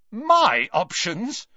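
Malfoy scoffing at the offer; loudly. Acted. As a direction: fling the question back. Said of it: "said Malfoy loudly".

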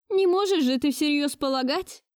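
put-on high-pitched scolding old lady; stern grandmother. A narrator's reading. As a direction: scold him like an imperious grandmother. Grandmother voiced higher. (властная бабушка отчитывает внука)

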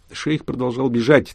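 ordinary delivery, nothing marked

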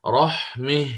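رحمه with the final vowel leaning toward e; imala on the final. Shown as a demonstration. Teacher demonstrating the imala pause on رحمه. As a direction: read رحمه stopping on ha with imala. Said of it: "فأقف للإمام الكسائي بالإمالة وأقرأ".

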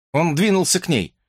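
ordinary delivery

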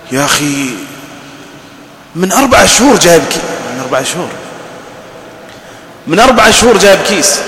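exasperated, rising complaint; complaining husband. Acted. Preacher voices a husband protesting about rice, exasperated. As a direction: protest like a put-upon husband.

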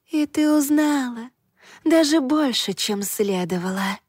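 high gurgling lake creature. A narrator's reading. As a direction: gurgle it like a water spirit. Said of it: "От её булькающего голоса".

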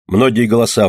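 normal talking voice

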